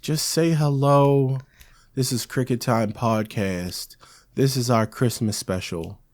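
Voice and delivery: slow, drawn-out prompt; spelling it out. Shown as a demonstration. Host telling co-host what to say, slowly spelling it out. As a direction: lay it out slowly for a slow learner.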